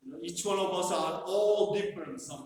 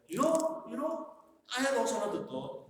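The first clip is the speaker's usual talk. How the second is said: eager interrupting listener; 5 semitones higher, faster than usual. Acted. Listener hijacks with own story.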